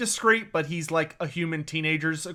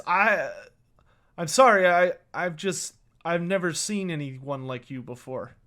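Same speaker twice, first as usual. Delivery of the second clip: embarrassed stammer. Acted. Flushed boy apologizes to the stranger he stared at, embarrassed stammer. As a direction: stammer a mildly flustered apology. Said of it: "his face turns very red".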